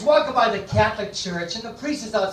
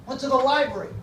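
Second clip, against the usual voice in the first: put-on slightly higher kid's answer in a joke; a hint of a boy's voice, pitched up; lightly voiced son; 5 semitones higher than usual. Son fibbing to his father at supper, lightly voiced.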